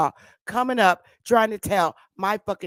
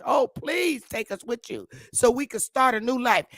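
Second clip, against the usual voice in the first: higher-pitched imitated pleading; mock begging; 6 semitones higher than usual. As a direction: plead like a mocked beggar. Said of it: "Begged the British".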